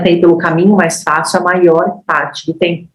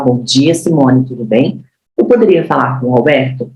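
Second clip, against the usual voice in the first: lower, tentative asking tone; hesitant request; 3 semitones lower than usual. Shown as a demonstration. Trainer demos a weak, timid call to the receptionist. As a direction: ask meekly, as if unsure. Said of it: "se eu falo".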